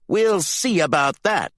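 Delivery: high, loud, slow challenge; angry threat. A narrator's reading. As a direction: throw it back as a heated threat. Gaza threatens before shoving Candy aside.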